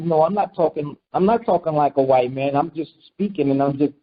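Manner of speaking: understated, imitated self-defence; mock defensive reply. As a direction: play it down, explaining yourself.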